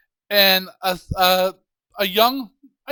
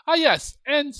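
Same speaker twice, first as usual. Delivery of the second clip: witch voice; 9 semitones higher than usual. Acted.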